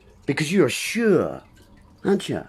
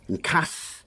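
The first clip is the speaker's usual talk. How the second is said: whispered aside; 7 dB quieter than usual. Real, not acted. Word play on diss, cuss.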